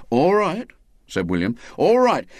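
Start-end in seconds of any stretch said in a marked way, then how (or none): 0.1-0.7 a firmer, louder, higher all right; defiant. Acted. William insists, defiant. 1.8-2.3 louder, higher all right, falling hard; defiant outburst. Acted. William insists again, harder.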